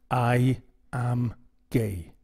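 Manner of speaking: slow, low, firm statement; with conviction. Shown as a demonstration. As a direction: state it slowly and firmly to yourself. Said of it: "say it with conviction".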